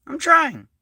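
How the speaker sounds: "trying" pitched high, then falling; stress on trying. Real, not acted. Insisting on his effort to viewers, stress on "trying". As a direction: lift "trying" high to emphasize it. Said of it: "I emphasize the word trying".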